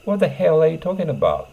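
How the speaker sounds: high, loud rough demand; rough and angry. Shown as a demonstration. Teacher acts out a rough angry speaker, pitched high. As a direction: spit out the question roughly. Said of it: "乱暴ですね".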